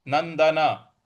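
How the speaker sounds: नंदना with the last ना said in full; full final a. Shown as a demonstration. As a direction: say नंदना, not नंदन. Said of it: "नंदन नहीं बोलना है". (पूरा नंदना)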